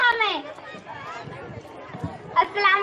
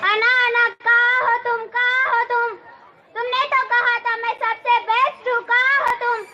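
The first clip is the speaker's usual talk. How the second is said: calling out desperately. Acted. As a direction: call out searching, distressed. Sana calls out for lost friend. (घबराकर ज़ोर से पुकारना)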